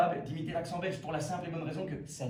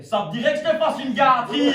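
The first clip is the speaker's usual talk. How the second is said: put-on much higher, far louder caricature Liège accent; thick Liège accent; 10 semitones higher, 13 dB louder than usual. Liège woman propositioning him in bed, loud high Liège accent. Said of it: "une liégeoise qui me dirait".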